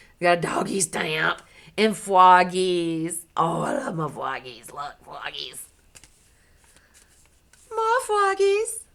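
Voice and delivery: delighted frog-stamp cooing. Real, not acted.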